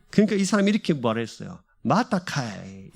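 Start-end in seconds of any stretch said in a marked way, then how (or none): 1.8-2.9 slow, low Gyeongsang drawl; 느리고 낮은 경상도 사투리; Gyeongsang dialect. Retold or imitated. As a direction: answer like a Busan native, drawn out. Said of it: "경상도 사람이".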